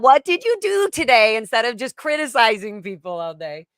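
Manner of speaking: put-on high, loud British-accented question. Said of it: "You almost sound British".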